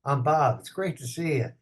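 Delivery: raspy, gravelly own voice. Retold or imitated. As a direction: lean into the rasp. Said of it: "I thought I talked really normal".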